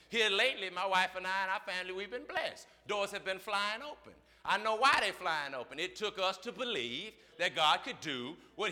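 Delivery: rising, loud call-and-response preaching; whooping preacher building to a shout; preaching at full force. Acted. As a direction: preach it hard, pulling the church along.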